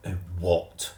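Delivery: lichtjes gespeelde jongen; Timothy. A narrator's reading. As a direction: een vlotte, zelfverzekerde jongen. Timothy character voice.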